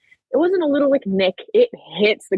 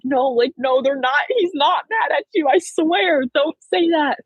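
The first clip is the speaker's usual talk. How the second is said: insistent reassurance; 7 semitones higher than usual. Retold or imitated. Coaches reassuring a crying athlete.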